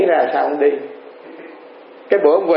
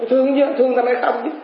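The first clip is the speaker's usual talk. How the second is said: put-on old father's reply; 7 semitones higher, faster than usual. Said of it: "Ba thương con không?".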